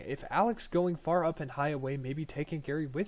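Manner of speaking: eager little goblin greeting a stranger; excited goblin Gary. Acted.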